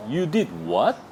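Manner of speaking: did lifted on a rising question; a little taken aback; casual surprised query; mildly surprised. Shown as a demonstration. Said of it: "약간 놀란 듯이".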